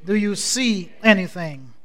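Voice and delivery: measured, declamatory Bible reading; scripture reading. Acted. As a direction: read scripture aloud for a congregation to follow. Leads congregation reading scripture in concert.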